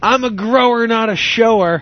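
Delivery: mock drunken yelling. Retelling drunkenly getting off a stage: imitating own past yelling. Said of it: "I just start yelling".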